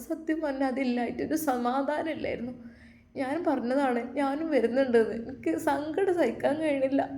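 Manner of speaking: understated weepy plea; tearful. Acted. Young mother telling she missed her sister, mildly tearful. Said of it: "Nusaiba കരഞ്ഞുകൊണ്ട് അത് പറഞ്ഞു".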